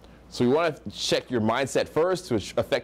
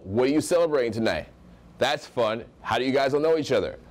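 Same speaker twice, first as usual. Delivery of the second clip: confident questions, "tonight" dropping at the end; great tonality. Shown as a demonstration. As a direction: land "each other" like a statement. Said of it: "I'm saying with a great tonality".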